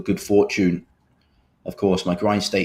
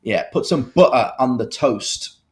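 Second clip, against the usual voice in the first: British accent. Shown as a demonstration. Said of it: "people get me to say in my British accent".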